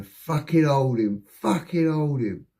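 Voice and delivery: mildly strained, drawn-out order; imitated effort of holding someone down; acted straining coppers. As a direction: grunt it slowly while struggling to pin someone. Coppers straining to restrain him.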